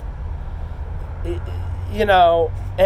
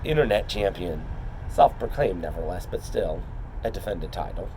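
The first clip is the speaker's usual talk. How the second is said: wrestling promo; 5 semitones lower, 3 dB quieter than usual. Acted. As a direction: call out your rival like a wrestler. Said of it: "So I'm gonna cut a promo".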